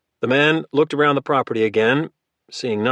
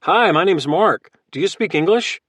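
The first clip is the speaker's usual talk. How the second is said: friendly; 6 semitones higher, 4 dB louder than usual. A narrator's reading. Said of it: "Logan spoke in a friendly manner".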